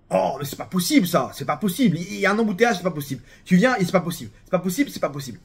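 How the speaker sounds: lightly acted habitual grumbler; mock French griping. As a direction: grumble it over and over, half in jest. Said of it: "il est tout le temps en train de râler".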